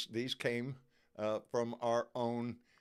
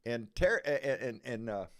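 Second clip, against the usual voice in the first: tongue-tied. Real, not acted. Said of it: "my mouth is all screwed up".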